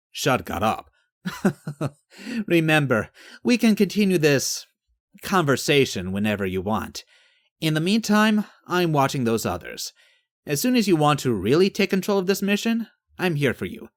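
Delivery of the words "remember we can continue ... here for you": confident visitor. Acted. Character voiced in narration.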